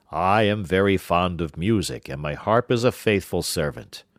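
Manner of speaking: the giant praises his harp. Acted. Giant fondly praises the harp to his wife. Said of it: "said the giant".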